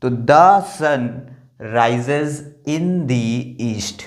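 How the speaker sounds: "rises in the east" very slow, "the" as "dee"; the as "dee" before east. Shown as a demonstration. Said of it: "इसको हमने क्या pronounce किया? दी". (धीरे-धीरे, ईस्ट से पहले "the" को "दी" बोलें)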